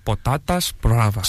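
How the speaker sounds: Spanish accent. Shown as a demonstration. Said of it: "Sí".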